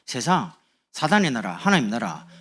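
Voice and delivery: ordinary talk, nothing marked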